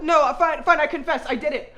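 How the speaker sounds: loud blurted giving-in; loud confession. Acted.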